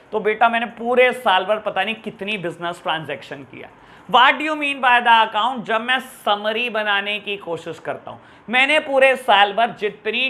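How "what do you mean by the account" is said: slow, higher, louder question; slow emphatic question. Shown as a demonstration. Teacher asking the children the key question, slow and emphatic. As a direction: drag out the question to make them think.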